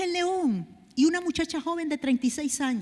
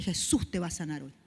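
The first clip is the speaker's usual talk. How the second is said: lower, softer, calm promise; husband reassuring; 8 semitones lower, 5 dB quieter than usual. Retold or imitated. Husband promising the sick woman healing, low and gentle. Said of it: "Y mi esposo le dice".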